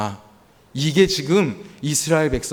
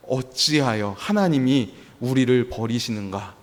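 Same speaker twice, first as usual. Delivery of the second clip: dropped low and soft, a forsaken cry; quiet mock lament of the abandoned; despairing complaint; 5 semitones lower, 4 dB quieter than usual. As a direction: let it sink into hurt. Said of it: "버리셨다라고까지 원망하고".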